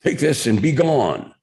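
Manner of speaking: high, imperious mock-British dismissal; hammed-up British lord sending someone away; Mike Royko's semi-British accent. Columnist hands heckler the autograph, semi-British accent. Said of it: "speak in a semi-British accent".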